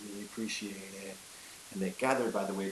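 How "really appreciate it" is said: hushed, grateful whisper to Jupiter; relieved whisper. Retold or imitated. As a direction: whisper thanks like a close call survived. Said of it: "Numa was like".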